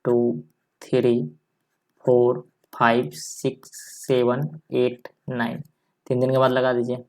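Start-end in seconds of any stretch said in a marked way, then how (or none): 0.0-5.6 counting each digit out slowly; slow, deliberate teacher count. Shown as a demonstration. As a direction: spell the digits slowly for the class. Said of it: "ऐसे पढ़ना है".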